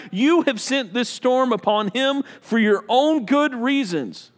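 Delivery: slow, emphatic plea to God; earnest, drawn-out appeal in prayer; pleading. Acted. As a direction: plead your case before the Lord. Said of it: "they pleaded".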